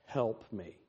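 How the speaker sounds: low, soft admission of needing help; small, sheepish request; humble plea. Acted. Failed home improver calling someone who knows, humble quiet plea. Acted humbled call for assistance.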